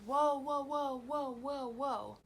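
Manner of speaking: high, loud startled whoa that fades out. Retold or imitated. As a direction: back off in alarm, fading. Drunk stranger backing off.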